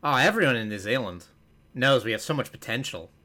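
lightly imitated New Zealand accent; attempted New Zealand accent. Podcaster imitating New Zealanders in a commercial, attempted New Zealand accent. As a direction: try a New Zealander's testimonial, accent half there. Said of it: "the first half of that is a real".

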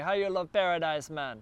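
light mock Jamaican accent on the question; a hint of a Jamaican accent, playful. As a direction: toss off a casual Jamaican accent imitation. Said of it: "that's my Jamaican accent".

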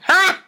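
one loud, high "ha"; scornful single-burst laugh. A narrator's reading. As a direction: fire off a mocking laugh. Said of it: "the sheep only laughed scornfully".

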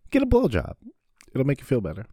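mock ad pitch, squealed; squealing punchline. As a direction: shriek the advice gleefully.

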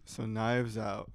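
drowsy, flat and slow; sleepy low energy. Real, not acted. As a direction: say it like you just woke up. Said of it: "Oh my God, wake up".

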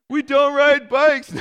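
put-on high, loud, slow kid declaration; little boy voice. Dad imitating his son loudly refusing bikes. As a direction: shout it like a stubborn little boy. Voicing son's joke answer.

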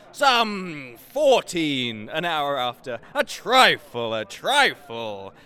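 slow, loud offhand boast; mock Hotspur. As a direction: toss it off like a braggart. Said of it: "and answers".

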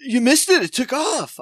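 high, loud, smug airline agent; mocking airline staff. Mocking the gate agent who says the flight left, high and smug. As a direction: sing it up high like a smug clerk. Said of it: "They're like".

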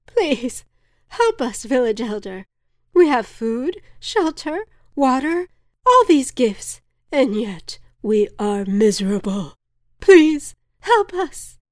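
high, loud desperate begging; frazzled woman pleading. A narrator's reading. Frazzled woman begs the village elder, high desperate plea. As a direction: grovel and beg for help. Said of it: "began groveling at the elder's feet".

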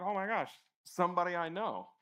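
lightly acted delighted recognition; super excited. Spotting a friend across the street, mildly excited. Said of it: "you're just super excited".

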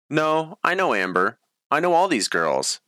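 high lively insistence; eager. A narrator's reading. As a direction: jump in to rescue them. Cassandra defends them brightly.

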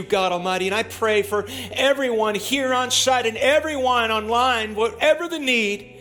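loud, high fervent prayer; preaching prayer. Acted. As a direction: pray it out with full force. Loud fervent prayer over congregation.

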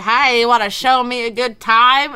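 put-on a casual Australian accent. Retelling two Australian guys in the park, light Australian accent. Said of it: "that was my Australian accent".

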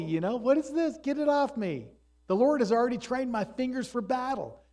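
lightly voiced young David, high and eager; voicing David's brave pleading, half-acted; David retold. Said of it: "He says".

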